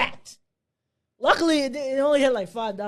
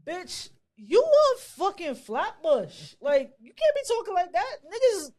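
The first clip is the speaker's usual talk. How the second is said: laughing scold; 10 semitones higher than usual. Retold or imitated. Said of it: "She was like".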